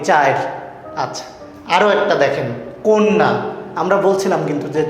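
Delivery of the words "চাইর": "চায়ের" said chair, low and falling; regional epenthetic pronunciation. Shown as a demonstration. Teacher repeats the regional example, "চায়ের" pronounced chair. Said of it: "আঞ্চলিক কথাবার্তায় ব্যবহার করি".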